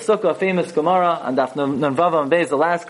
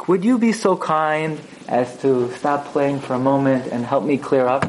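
put-on mother asking her children with great respect; respectful request; 2 semitones lower than usual. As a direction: ask the child kindly and politely. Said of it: "it was with tremendous kavod".

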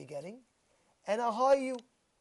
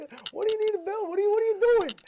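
incredulous; 9 semitones higher, 3 dB louder, faster than usual. Retold or imitated. Rabbi incredulous at the student.

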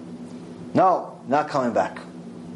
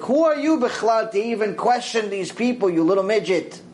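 indignant rebuke; 6 semitones higher than usual. Real, not acted.

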